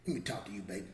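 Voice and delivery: low-voiced, no-nonsense grandma imitation; hard grandma. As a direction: lightly imitate a firm Southern grandma. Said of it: "She was hard too, like that".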